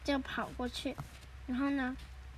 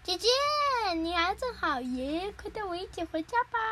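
eager pleading; 5 semitones higher than usual. Acted. Younger one begs sister to take them home, pleading. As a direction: plead sweetly in a raised voice.

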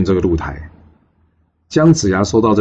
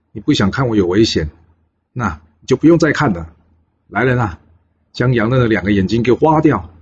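angry king. Acted. The king slamming the table at Yang Ren, angry. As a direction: rage at the minister, each sentence hard. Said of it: "生气地拍着桌子说".

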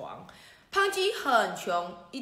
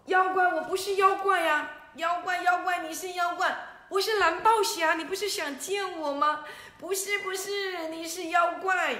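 frantic shouting; 8 semitones higher, 5 dB louder than usual. Acted. Boy and hero argue.

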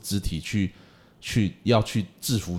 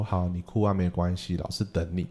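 calm and soft; 3 semitones lower, 5 dB quieter than usual. Retold or imitated. Teacher calmly tells child to cry.

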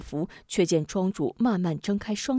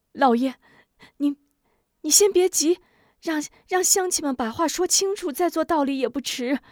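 urgent pleading; 7 semitones higher than usual. Acted. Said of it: "吴夫人连忙劝道".

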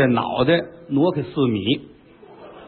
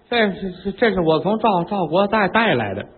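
stammering maid; 3 semitones higher than usual. Acted. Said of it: "嘴里吞吞吐吐， 语无伦次".

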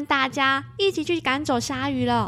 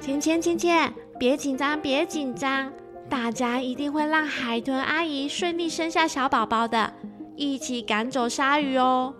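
reassuring dolphin. Acted. Dolphin comforts child.

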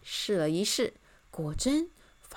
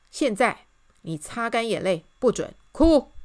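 firm order, building higher and louder; loud command; 3 semitones higher, 8 dB louder than usual. A narrator's reading. Miss Optimist orders the king to stop crying, loudly. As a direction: punch out the last words. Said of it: "大声对他说".

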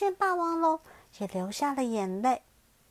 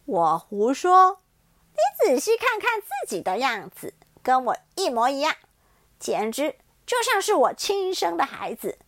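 mocking tyrannosaurus; 6 dB louder than usual. T-rex scoffing at the child's denial, loud and mocking. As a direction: turn his words back on him.

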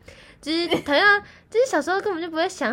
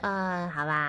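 put-on reluctant kid; 8 semitones lower, 7 dB quieter, slower than usual. Child reluctantly agreeing.

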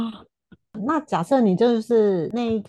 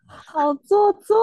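mock disgust; 12 semitones higher, 8 dB louder, slower than usual. Real, not acted. Laughing at overly polite speech.

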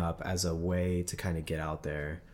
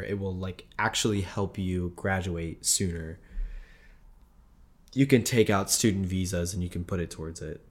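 voice giving out. Real, not acted. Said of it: "I'm losing my voice completely".

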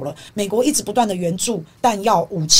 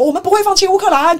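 mock earnest pledge, higher and louder; Biden's promise; 9 semitones higher, 5 dB louder than usual. Commentator mocking Biden's empty promise, higher and louder. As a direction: parrot the president's grand promise. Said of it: "拜登嘴巴上说".

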